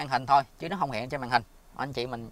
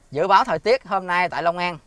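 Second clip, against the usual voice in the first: clear voice command; 3 semitones higher, 6 dB louder than usual. Real, not acted. Dictating a command to Google Assistant.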